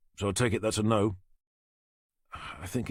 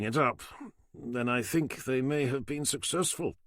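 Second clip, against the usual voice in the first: a higher, dry, sardonic doctor; wry doctor voice; 5 semitones higher than usual. Acted. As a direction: pathologist hedging his promises with irony. Doctor character voice.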